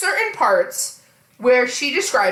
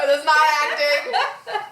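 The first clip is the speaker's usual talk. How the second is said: laughing insistence; 3 semitones higher than usual. Real, not acted. Host insisting to co-host it's not acting, laughing. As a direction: insist through real laughter. Repeats her point while laughing.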